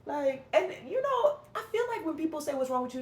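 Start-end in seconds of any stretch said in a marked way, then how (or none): 2.6-3.0 mildly accusing retold question; unkind. Vlogger quoting people who ask what's wrong, unkind. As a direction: ask it without any kindness, a touch higher. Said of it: "don't never say it in, like, a kind and loving way".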